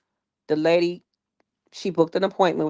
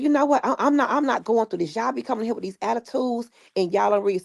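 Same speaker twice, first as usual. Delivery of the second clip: a higher-pitched, huffy mock rant; high, exasperated mock complaint; imitated huffy outburst; 6 semitones higher than usual. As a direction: play the fed-up stylist brushing a client off. Stylist's outburst retold.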